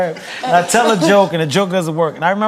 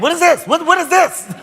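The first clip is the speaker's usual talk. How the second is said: mock angry outburst; 11 semitones higher than usual. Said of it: "I got mad".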